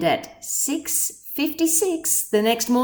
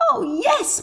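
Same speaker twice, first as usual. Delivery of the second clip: higher, small piping voice; piped; 10 semitones higher than usual. A narrator's reading. Tiny mayor answers Horton, high piping. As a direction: pipe it up like a tiny creature. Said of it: "piped the voice".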